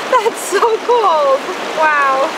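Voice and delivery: high, loud, breathless from cold; shivering exclaim. Real, not acted. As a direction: gasp it out in icy water. Standing in icy river.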